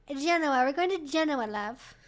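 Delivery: attempted British accent, playfully put on; clumsy mock-British lilt; bad British accent. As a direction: have a drunken go at British. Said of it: "I can't do accents while I'm drunk".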